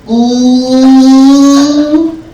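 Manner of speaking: high, loud, slow singsong tattle; little sister singsonging that she's telling mom; tattling little sister. Retold or imitated. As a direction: sing it out like a bratty little sister. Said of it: "The next thing I hear is".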